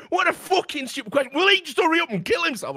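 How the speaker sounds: high, loud sneering chat voice; high mocking troll voice. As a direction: shriek it like a spiteful troll. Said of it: "people are going".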